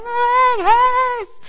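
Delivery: high, loud, slow wailing yell; child's shout. Retold or imitated. Delirious daughter shaking her leg in bed, loud high wail. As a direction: bellow it like a delirious kid mid-meltdown.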